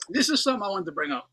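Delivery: talking through coughs; words squeezed out between coughs; coughing fit. Real, not acted. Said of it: "I'm choking my fucking lungs out over here".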